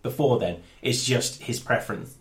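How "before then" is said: mock announcement through laughter; laughing.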